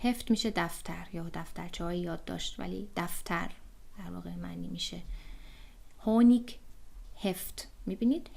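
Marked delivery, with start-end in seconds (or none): 6.0-7.7 "هونیک" and "هفت" each starting on an audible h; h pronounced. Shown as a demonstration. Teacher contrasting with silent h, audible h in "هونیک" and "هفت". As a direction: sound the first h in "هونیک", then in "هفت".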